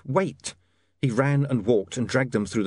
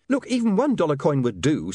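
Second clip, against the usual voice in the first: patient; 5 semitones higher than usual. Acted. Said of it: "said William patiently".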